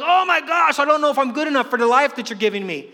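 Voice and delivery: high, rushed freak-out; mock panic. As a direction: act out a mild panic, loudest on the first words. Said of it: "you panic and freak out".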